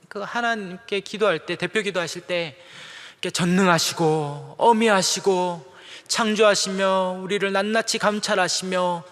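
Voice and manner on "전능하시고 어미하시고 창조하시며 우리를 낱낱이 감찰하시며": elder's prayer. Retold or imitated. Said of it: "이렇게 부르시는데".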